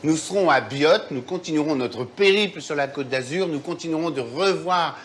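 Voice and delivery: talking with a mouth full of food. Real, not acted. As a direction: speak through a mouthful. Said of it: "j'ai la bouche pleine".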